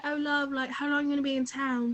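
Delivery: lightly put-on British accent; a hint of mock British accent; imitated British accent. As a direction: imitate a British guy's chatty texting in his accent. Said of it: "I could just hear the accent".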